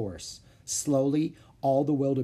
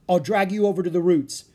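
loud, raised, determined voice; urgent call; 7 semitones higher, 8 dB louder than usual. Acted. Jack hauling Annie from the mud, urgent call. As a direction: call out the rescue plan urgently.

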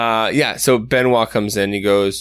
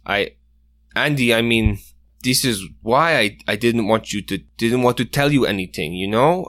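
a lightly voiced, remorseful mentor who turns pleading; worried older hunter apologizing to the injured kids; guilt-stricken Benoit; 2 semitones higher than usual.

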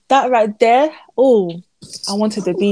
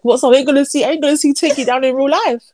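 high-pitched retold lament; exaggerated fan's complaint; mock dismay; 5 semitones higher than usual. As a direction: protest it higher on the repeat, playing up the dismay. Retelling own dismayed reaction.

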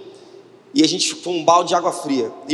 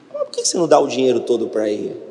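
lightly voiced inner divine voice, lower; a hint of God speaking, pitched down; Espírito Santo; 5 semitones lower, faster than usual. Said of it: "eu senti o Espírito Santo falou". (voz do Espírito Santo, levemente mais grave)

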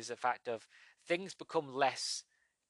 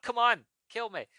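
put-on higher, louder Austrian accent taunt; Schwarzenegger accent; 9 semitones higher, 6 dB louder than usual. Taunting the villain again in an Austrian accent. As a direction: dare them, bad Austrian accent. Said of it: "I'm like".

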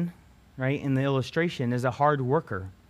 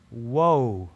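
amazed whoa; 2 semitones lower, 4 dB louder than usual. Shown as a demonstration. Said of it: "this time the W O A H".

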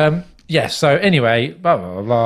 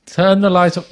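loud, fed-up command; louder exasperated order; 4 semitones higher, 5 dB louder than usual. Acted. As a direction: raise it to a near shout. Third repeat, still raised.

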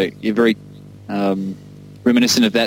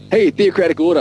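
higher-pitched mock stage call; imitated calling out; 6 semitones higher, 3 dB louder than usual. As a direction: call it out like the singer onstage. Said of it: "he'd be calling out".

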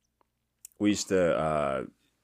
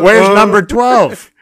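hollered question, high and stretched out; exasperated shout; 9 semitones higher, 10 dB louder, slower than usual. Retold or imitated. Lost delivery driver demanding directions from a motorist, exasperated shout. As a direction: re-enact yelling slowly across a road.

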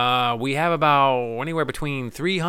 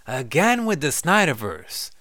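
mock exasperation; 7 semitones higher, slower than usual.

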